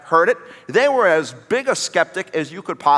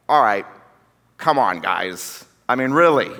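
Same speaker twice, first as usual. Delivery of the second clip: skeptical; 4 semitones lower than usual. Acted. Voicing doubting Thomas to friends.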